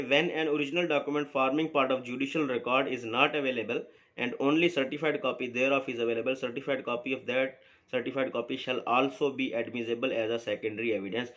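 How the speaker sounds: slow, deliberate reading of the law text; measured recital of legal wording; reading the statute aloud. Acted. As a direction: read each clause out slowly, like dictating to students. Lecturer reads statute text aloud.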